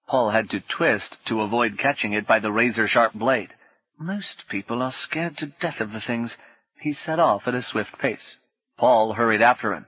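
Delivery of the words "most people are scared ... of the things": confidential whisper. Acted. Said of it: "in a confidential whisper".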